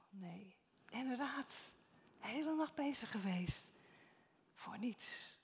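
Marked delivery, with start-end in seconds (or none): 0.1-0.5 whispered no. Acted. Disciples' weary answer.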